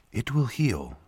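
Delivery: soft, lightly voiced serene woman; reply softly as the woman; female voice. A narrator's reading. Woman reassures the young man, soft female voice. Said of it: "the woman replied".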